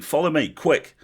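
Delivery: urgent high, loud rallying yell. A narrator's reading. Sergeant urges goblins after her at the wizard, yelling. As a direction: yell the order to charge. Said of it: "somebody was yelling".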